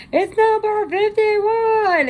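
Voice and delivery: high, loud, slow yell from another room; imitated scream. Grandma yelling the number from the other room, high and loud. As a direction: call it out like grandma from the next room. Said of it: "she'd be screaming from the other room".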